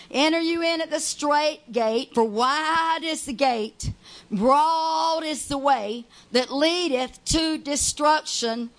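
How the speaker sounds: slow, measured reading; slow solemn Bible verse; scripture reading. Acted. Reads scripture.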